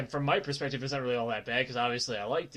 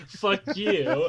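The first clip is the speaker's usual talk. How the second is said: retold indignant comeback, pitched up; mock indignation; 5 semitones higher, 4 dB louder than usual. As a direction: imitate a friend lashing back. Retold quarrel, friend lashing back.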